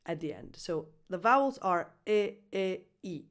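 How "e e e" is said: e, e, e with the first one lax and stronger; vowel sequence. Shown as a demonstration. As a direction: model e, e, e, hitting the first harder. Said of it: "hit a little bit harder".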